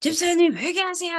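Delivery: high, loud, bold calling voice.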